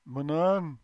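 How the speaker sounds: exaggerated Liverpool accent on one word. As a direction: mimic a Liverpool accent, badly. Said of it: "the Liverpool accent is fascinating".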